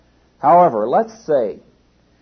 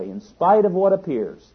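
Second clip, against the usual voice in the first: "appears" stretched out with a raised, emphatic pitch; stress on appears; 6 semitones higher, 3 dB louder than usual. Real, not acted. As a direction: lean hard on the word "appears". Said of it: "I emphasize the word appears".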